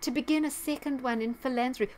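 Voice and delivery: high, whiny mock voice; Bill Gates. Vlogger reading the foreword mockingly, whiny impression. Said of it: "it's just like this whiny tone".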